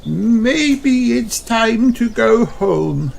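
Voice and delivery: high, slow voice of an overfull granny; drawn out like she ate far too much; full tummy. A narrator's reading. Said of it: "says Granny Pig, rubbing her tummy".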